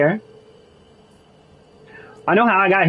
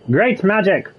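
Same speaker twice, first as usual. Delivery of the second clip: enthusiastic; 4 semitones higher than usual. Shown as a demonstration. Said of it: "is this sarcasm or is it like".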